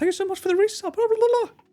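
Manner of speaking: high-pitched voice. Thanking a subscriber for resubscribing, speaking high-pitched. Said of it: "Why am I speaking so high?".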